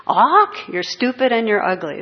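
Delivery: high, loud squawk of a rude parrot. Retold or imitated. Parrot squawks insults at a passing woman, shrill and loud. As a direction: screech it like a mocking parrot. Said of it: "She's on her way to work".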